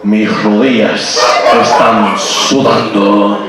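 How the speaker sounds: ещё раз низко и медленно, но сквозь смех; Бандерас, еле сдерживая смех; Antonio Banderas voice again. Pretend. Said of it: "I'll say it again".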